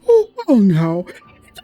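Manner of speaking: hammed-up tiny fairy, stretched out; little fairy voice. Reading fairy NPC dialogue aloud, very high and loud. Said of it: "I'm gonna try to read it like them".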